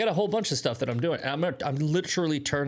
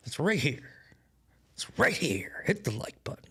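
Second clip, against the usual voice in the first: whispered plea. Pretend. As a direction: coax them under your breath.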